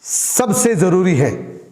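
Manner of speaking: slow "सबसे जरूरी है", falling at the end; deliberate, measured stress on "सबसे"; drawn-out emphasis. Shown as a demonstration. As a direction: stretch "सबसे" for weight. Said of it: "इसको मैं ऐसे भी बोल सकता".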